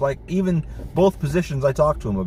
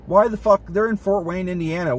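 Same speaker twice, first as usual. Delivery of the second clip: exasperated outburst; 4 semitones higher than usual. Real, not acted. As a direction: blurt it out, fed up and furious. Venting fury about boss's needless tagging.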